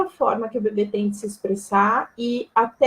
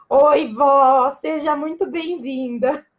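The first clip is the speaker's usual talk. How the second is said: saudação calorosa; 3 semitones higher, slower than usual. Real, not acted. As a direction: greet her with amused affection. Greets grandmother who is laughing online. (saudação carinhosa e brincalhona)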